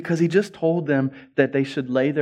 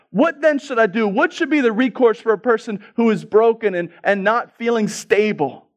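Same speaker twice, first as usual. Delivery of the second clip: raised-pitch rhetorical questioning; impassioned preaching; 9 semitones higher, 4 dB louder than usual. Acted. Preacher asking what a broken person should do, impassioned preaching. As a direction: put the question urgently to the congregation.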